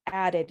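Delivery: "added" set apart with emphasis; stress on added. Real, not acted. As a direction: lean on the word "added". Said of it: "I'm emphasizing that word".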